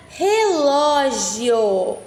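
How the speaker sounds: very slow, every syllable spaced; slow dictation. Shown as a demonstration. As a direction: dictate slowly for writing. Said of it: "Vou falar pausadamente".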